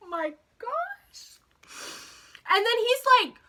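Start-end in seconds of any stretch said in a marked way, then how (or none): 0.1-1.4 airy whisper after a laugh; real whispered exclamation, softer and high; whispered aside. Real, not acted. Teller pausing mid-story to recover, whispered exclamation.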